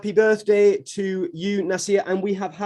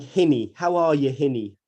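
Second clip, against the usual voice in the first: Geordie greeting; 2 semitones lower, 3 dB louder than usual. Shown as a demonstration. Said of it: "we'll call people things like".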